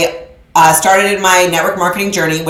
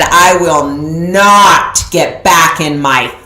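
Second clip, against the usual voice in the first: defiant vow; 3 dB louder, much slower than usual. Retold or imitated. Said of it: "and I said".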